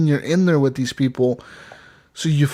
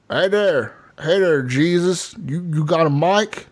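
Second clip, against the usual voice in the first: higher-pitched Southern redneck greeting; drawn-out imitation redneck accent; 3 semitones higher, slower than usual. Redneck stranger greets a new squadmate over the mic, imitated redneck accent. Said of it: "most redneck motherfuckers".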